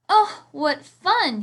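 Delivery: high, loud and slow with joy; delighted smile. A narrator's reading. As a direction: squeal it out gleefully. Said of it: "he said with a smile".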